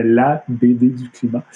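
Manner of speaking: slow, careful international French; international French accent. Shown as a demonstration. Likening the title to A B C, in international French. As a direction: spell out the pun in neutral international French. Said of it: "avec un bon accent français international".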